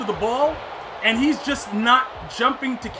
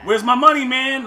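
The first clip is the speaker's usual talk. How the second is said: louder mock-demanding quote; louder Stewie quote; 3 semitones higher, 7 dB louder than usual. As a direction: shout the catchphrase at the screen, teasing. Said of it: "Family Guy episodes ever".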